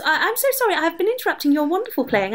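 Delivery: high, gushing apology; flustered apology. Acted.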